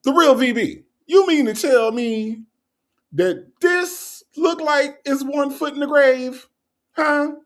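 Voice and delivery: very high, drawn-out incredulous demand; straight-faced mock indignation. Host retries grilling the commenter, straight-faced mock outrage. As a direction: stretch out the outraged question without cracking. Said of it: "Hold on, let me try it again".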